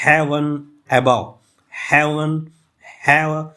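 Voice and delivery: "heaven above" with HEAV and BOVE hit hard, pauses between; stressed syllables. Shown as a demonstration. Teacher demonstrating spondee meter, stressed and separated words. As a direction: punch each word of "heaven above" separately. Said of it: "have भी मैंने stress पढ़ लिया".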